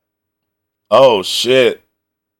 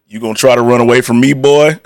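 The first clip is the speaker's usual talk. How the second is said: mock tough guy; 5 semitones lower, faster than usual. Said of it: "My man said".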